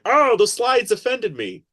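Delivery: high, slow, whiny mock voice; mocking complainers. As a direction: mimic offended people, drawn out. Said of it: "some people were like".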